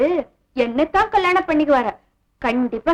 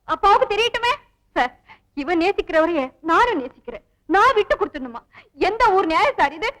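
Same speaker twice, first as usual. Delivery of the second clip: fake hurt pleading; 3 semitones higher than usual. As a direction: play the wronged girl for sympathy. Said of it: "பிரமாதண்டி உன் நடிப்பு".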